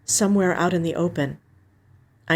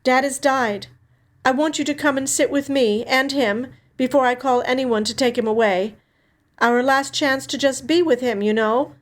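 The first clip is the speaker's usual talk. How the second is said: put-on older sister Alex, gently breaking news; 7 semitones higher than usual. A narrator's reading. Sister on the phone telling Sonny their dad died, raised and sad.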